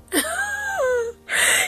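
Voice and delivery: high shrieking laugh. Real, not acted. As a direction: burst out in a shrill laugh. Shocked laugh at his question.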